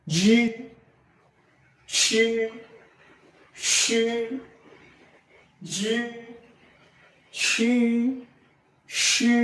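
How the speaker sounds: জি and সে drawn out with a push of air; throaty pinyin sounds. Shown as a demonstration. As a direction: hold জি and সে long, pushed from the throat. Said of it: "উচ্চারণ হচ্ছে গলা থেকে".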